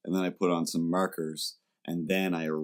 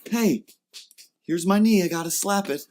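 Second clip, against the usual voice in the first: high, loud mock guffaw; hammed-up laughing fan slapping a knee; knee-slapping laughter; 11 semitones higher, 4 dB louder than usual. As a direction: ham up a hearty laugher. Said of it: "burst out laughing".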